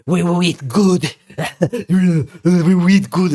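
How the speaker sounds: gloating line broken by a laugh; laughing taunt. Retold or imitated. Naked man taunting the young cellmate, laughing menace. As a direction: laugh through the threat, mocking.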